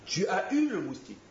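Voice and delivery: rising triumphant mock awe; building comic excitement. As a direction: pile up the absurd damage with glee. Punchline of missile joke.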